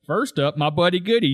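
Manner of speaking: firing the line right back, lightly imitated; Zig. Zig firing right back at Shoresy, mimicking retort. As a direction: parrot his introduction back at him. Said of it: "fire right back at Shoresy".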